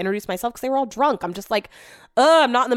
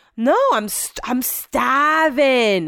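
bad put-on drunk English accent, higher, much slower; 5 semitones higher than usual. Retelling taking a wasted Brett home from the bar, bad English accent as Brett. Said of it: "I'm so bad at doing an English accent".

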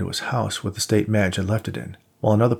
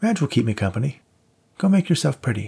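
playful, sing-song, teasing ribbing; 4 semitones higher than usual. Jennifer, keeping the dog with her, to Nate as he goes to change: teasing. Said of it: "she teased".

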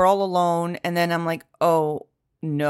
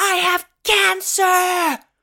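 high-pitched yelled outburst; 13 semitones higher, 3 dB louder than usual. Retelling a street argument with a driver: imitating own yell. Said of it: "it ended with me yelling at him".

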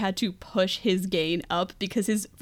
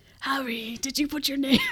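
put-on creepy, eerie whisper; 4 semitones higher than usual. Describing a character's voice, acting out his line in a creepy whisper. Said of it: "Creepy whisper. That's in, like, the super low".

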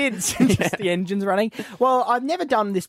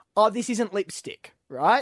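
ordinary delivery

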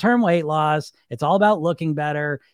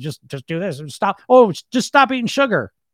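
know-it-all tone of voice; 4 semitones higher, 4 dB louder than usual. Mocking people who tell others to just stop eating sugar, know-it-all voice. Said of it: "or it's the know-it-all voice".

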